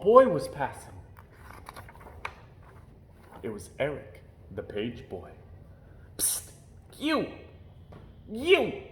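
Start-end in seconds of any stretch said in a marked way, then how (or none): 6.2-8.8 hoarse nervous whisper. A narrator's reading. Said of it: "hissed in a hoarse, nervous whisper".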